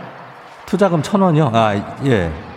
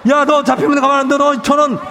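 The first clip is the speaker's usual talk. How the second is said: angry shout; 3 semitones higher than usual. Acted. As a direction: yell at the runaway kid. Shouting after the fleeing kid.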